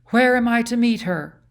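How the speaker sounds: high, loud anxious question; a queen fighting down her fear; anxious demand. A narrator's reading.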